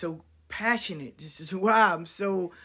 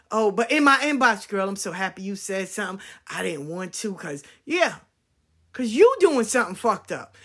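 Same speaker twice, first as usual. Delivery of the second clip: mock inbox gossip; 5 dB louder than usual. Imitating friends who praised her privately, loud and mocking. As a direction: play the two-faced friend.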